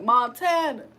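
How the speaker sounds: lightly imitated rapper saying his own name; French Montana. Streamer joking about a French singer, mimicking his name drop. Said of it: "He be like".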